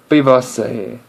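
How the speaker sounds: "B Buster here" with the R's dropped; Aussie "Buster here", no R sounded; Australian pronunciation. Shown as a demonstration. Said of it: "they don't really pronounce the R's".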